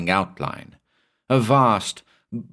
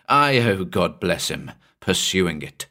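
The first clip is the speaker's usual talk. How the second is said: ordinary delivery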